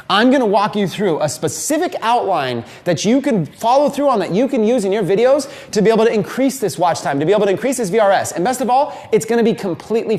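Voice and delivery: mock-hyped, quick teaser with a laugh; hyped pitch. Shown as a demonstration. Coach demonstrating a hype teaser to viewers. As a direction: sell what's coming like an eager hype man. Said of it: "If I go".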